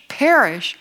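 mildly disbelieving echo of PERISH; incredulous objector. Acted. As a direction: question "Perish" like a mock sceptic. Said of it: "somebody who doesn't even believe there's a God".

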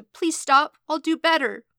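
high, loud, desperate begging; panicked, whimpering promise; whimpering plea. A narrator's reading. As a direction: beg like a frightened child. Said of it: "whimpering and telling him".

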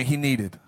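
slow emphatic he needed; preacher prompting the crowd to repeat; congregation call-back. Shown as a demonstration. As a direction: lead the room in saying he needed. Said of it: "Say with me".

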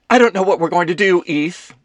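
high, loud, rushed theatrical panic; dramatic panic. A narrator's reading. Kelsey panicking to Ethan, dramatic and fast. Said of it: "flipped to dramatic panic".

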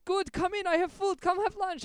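Abdullah. Retold or imitated. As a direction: coax him inside, high and eager. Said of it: "And he goes".

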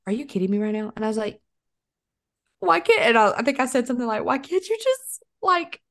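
high, squeaky pleading, laughing through it; hammed-up high plea; funny voice. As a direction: beg for sympathy in a silly high whine. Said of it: "I'll do a funny voice".

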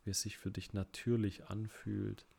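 slightly hushed, unhurried guide with long pauses; guided relaxation. Real, not acted. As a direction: ease them gently through each breath, leaving long pauses. Leads breathing relaxation exercise.

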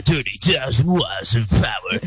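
announcer voice. Retold or imitated. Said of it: "you hear the Magic".

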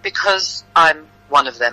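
slow, composed declaration; calm. Acted. Disguised woman reveals herself to the crowd, calm. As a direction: say it slowly and evenly. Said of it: "I said calmly".

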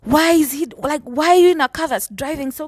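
mildly acted scolding; lecturing. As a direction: lecture the young people reproachfully. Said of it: "she starts lecturing us and she's like".

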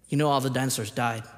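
imitating a child's straight-faced bluntness; stoic deadpan. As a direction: deliver it with no emotion at all. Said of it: "Like, straight face, stoic, just like this".

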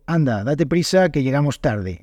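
un "Anda" lento y cansado, con fastidio; métele prisa con desgana; cansino y molesto. Shown as a demonstration. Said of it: "lo digo como un poco más cansado, como un poco más molesto". (meter prisa, cansado y un poco molesto)

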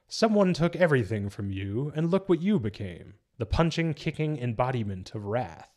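lightly voiced taunting villain; Joker. Villain taunting Batman about what he became, lightly acted. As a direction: lift the pitch into a mild taunt. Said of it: "Joker goes".

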